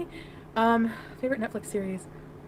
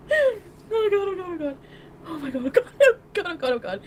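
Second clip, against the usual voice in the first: distressed; 6 semitones higher than usual. Real, not acted. Horrified by claim about them.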